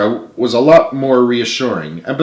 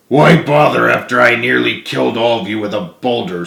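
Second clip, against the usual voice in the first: miserable. Acted. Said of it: "said James miserably".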